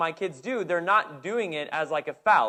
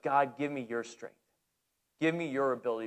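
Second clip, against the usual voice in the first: quiet prayer; 4 semitones lower, 5 dB quieter than usual. Retold or imitated. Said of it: "as I was praying".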